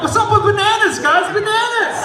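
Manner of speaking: stand-up bit. Pretend. Comedian performs for patients, high loud hammy shout. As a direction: bust into a hammed-up comedian routine. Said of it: "I bust out like".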